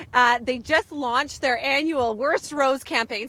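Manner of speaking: talking around hair in the mouth; slowed by hair caught in the mouth. Real, not acted. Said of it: "I got hair in my mouth".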